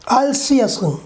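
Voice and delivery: "see you" as "see ya"; American reduced form. Shown as a demonstration. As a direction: link "I'll see you" with a weak "ya". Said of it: "they will pronounce".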